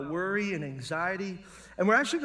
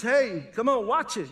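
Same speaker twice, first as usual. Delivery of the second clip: mock startled warning; 3 semitones higher, 4 dB louder than usual. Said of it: "It's just".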